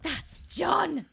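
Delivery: high, loud cry of recognition; surprised exclamation. Retold or imitated. Retelling hearing John's accent on TV, loud surprised cry. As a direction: blurt it out like you can't believe it. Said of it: "and I went".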